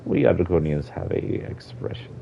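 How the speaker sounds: old Argonian voiced with a Jamaican lilt; light Jamaican accent for the elder. Old Argonian explaining the lost forest to a child, Jamaican accent. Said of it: "giving him a Jamaican accent".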